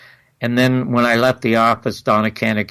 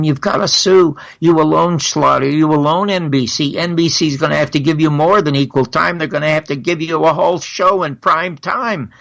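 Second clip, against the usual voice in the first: urgent urging; 4 semitones higher than usual. Retold or imitated. Retold urgent plea to Garrison.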